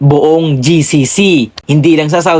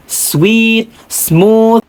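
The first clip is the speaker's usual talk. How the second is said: smooth, drawn-out words pitched higher; gentle and sweet; 4 semitones higher than usual. Shown as a demonstration. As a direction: stretch each word out sweetly. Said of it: "yung tono ng pananalita nila is malumanay".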